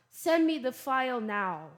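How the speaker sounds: direct, firm command; blunt order. Shown as a demonstration. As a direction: give it as a straight order. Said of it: "instead of saying".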